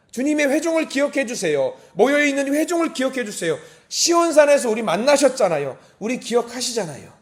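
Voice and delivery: high, urgent petition; fervent pleading prayer. Acted. Congregation begs God to remember them, fervent pleading. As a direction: cry out to God insistently.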